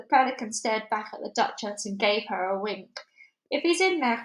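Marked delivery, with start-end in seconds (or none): 3.5-4.2 crying out. A narrator's reading. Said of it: "cried the Duchess".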